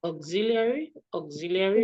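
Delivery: AUXILIARY sounded out in full, rising; careful model pronunciation. Shown as a demonstration. Teacher correcting a student's word, careful model pronunciation. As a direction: model "Auxiliary" clearly for the learner to copy. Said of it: "we use auxiliary verb".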